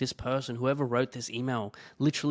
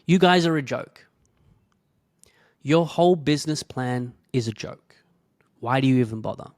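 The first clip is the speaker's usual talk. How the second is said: louder, contemptuous reading of an insult; mock hostile read; 8 dB louder than usual. Reading out a nasty message from a stranger, scornful and loud. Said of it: "And then the message wrote".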